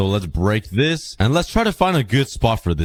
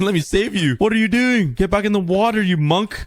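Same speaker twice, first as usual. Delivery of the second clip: playful scolding; 9 semitones higher than usual. Real, not acted. Scolding the stranded dolphin.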